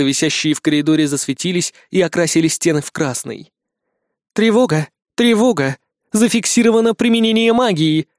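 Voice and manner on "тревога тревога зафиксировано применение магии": metallic alarm announcement; loud robotic loudspeaker voice; air raid loudspeaker. Acted. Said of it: "железный голос из громкоговорителей".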